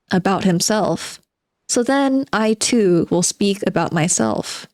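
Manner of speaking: reading a novel aloud with a touch of theatre; dramatic reading. Acted. Streamer reading the novel to chat, dramatic reading. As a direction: give the underground man's monologue its bite.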